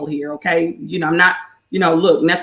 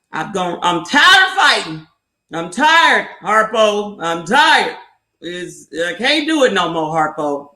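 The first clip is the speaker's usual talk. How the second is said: a tired, worn-down plea to Harpo, lightly voiced; lightly voiced Color Purple Sofia, fed up and spent; weary Sofia to Harpo. A woman telling Harpo she is done fighting, tired plea. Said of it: "You're finally like".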